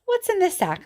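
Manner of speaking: high mocking singsong question; mocking ask. Teacher mimicking nagging crowd, mocking singsong.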